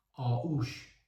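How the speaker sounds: "آووش" said avvosh, as printed; misprinted word. Shown as a demonstration. Reviewer reads the misprint aloud, misprinted word. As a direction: read "آووش" with a v in place of the gh. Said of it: "که درستش آغوش هستش".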